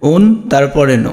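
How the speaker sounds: অন said as "on", then ন as "no"; broken into syllables. Shown as a demonstration. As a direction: say অন্য in two parts, on... no. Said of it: "এটা তুমি উচ্চারণ করো". (ভেঙে ভেঙে উচ্চারণ, অন... নো)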